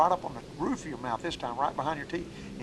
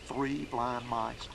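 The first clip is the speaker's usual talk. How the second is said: three blind mice drawn out slow and soft; slow nursery-rhyme cadence; 2 semitones lower, 6 dB quieter, much slower than usual. Shown as a demonstration. Duck call teacher showing the hen mallard rhythm, slow and soft. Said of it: "to get that cadence of a hen mallard".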